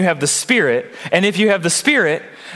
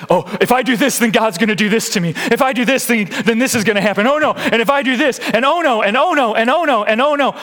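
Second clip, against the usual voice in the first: higher, fast, fretting worried voice; mock anxious believer; 6 semitones higher than usual. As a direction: spiral into rising panic, oh no after oh no. Voicing a fearful Christian's thoughts.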